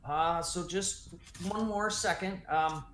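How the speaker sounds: slow, hesitant, lightly voiced older woman; measured homeowner, probing cautiously; older woman, calmer. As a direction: stall politely while sizing up strangers. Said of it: "the older woman says".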